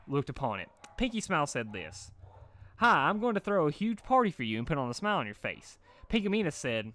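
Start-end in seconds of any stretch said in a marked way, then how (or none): 2.8-5.8 bubbly party voice. A narrator's reading. Pinkie smile voiced.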